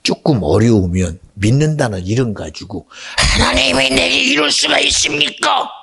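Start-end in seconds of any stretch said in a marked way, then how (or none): 3.2-5.7 a believer shrieking his grievance at God; whining complaint. Acted. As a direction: wail it at God like a betrayed child.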